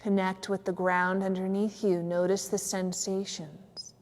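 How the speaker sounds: unhurried relaxation guide with long pauses; measured yoga nidra guidance; guided meditation. Real, not acted. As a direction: lead listeners gently into stillness, leaving space between phrases.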